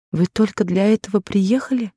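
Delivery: surprised. A narrator's reading. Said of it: "воскликнула с изумлением Дженни".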